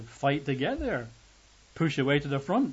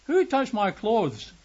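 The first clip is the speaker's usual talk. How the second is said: slow, high, louder question; Jesus turns to the crowd, asking slowly; 8 semitones higher, 5 dB louder, slower than usual. Acted. Jesus asks crowd who touched him.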